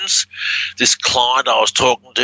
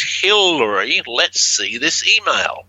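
slow, deliberate reading of the reversal; backwards speech; 3 semitones higher, slower than usual. Shown as a demonstration. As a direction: spell out the reversal slowly. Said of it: "we hear him say it backwards".

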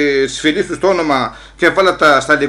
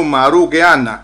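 shouting; 6 dB louder than usual. Retold or imitated. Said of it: "don't scream like that".

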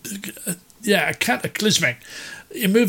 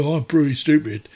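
lightly imitated Irish accent; 2 semitones lower than usual. Recalling an Irish labourer mocking himself, light Irish accent. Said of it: "in his Irish accent".

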